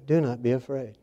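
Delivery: soft, calm reassurance; hushed, calm angel's reassurance; very calmly. Retold or imitated. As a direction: say it gently, like soothing a frightened man. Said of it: "And he said it very calmly".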